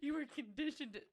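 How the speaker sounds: sudden realization. Retold or imitated. Realizing mid-sentence while talking to herself, surprised. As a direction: catch your own insight aloud. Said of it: "And then I'm like".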